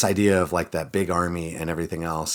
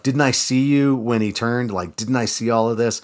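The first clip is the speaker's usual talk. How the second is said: higher, louder pointed questions; accusing prophet; 5 semitones higher, 5 dB louder than usual. Retold or imitated. Elisha confronting the lying servant, accusing. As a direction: catch him in the lie. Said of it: "And Elisha's like".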